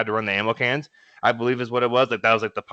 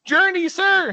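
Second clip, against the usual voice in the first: recruit shouting back; slower than usual. Retold or imitated. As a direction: snap it out like a recruit. Recruit answering drill instructor.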